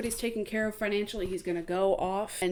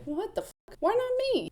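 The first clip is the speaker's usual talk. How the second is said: much higher indignant whine; offended; 13 semitones higher than usual. Retold or imitated. Finn passed over for the job, high indignant whine. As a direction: sound insulted. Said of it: "Finn looks offended".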